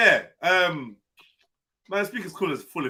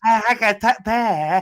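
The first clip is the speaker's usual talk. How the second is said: put-on Gujarati accent; 3 semitones higher, 6 dB louder, slower than usual. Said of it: "In a Gujarati voice".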